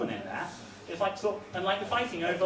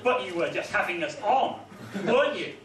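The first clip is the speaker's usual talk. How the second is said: mock earnest poem. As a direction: recite it like a solemn schoolkid poem. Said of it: "It goes".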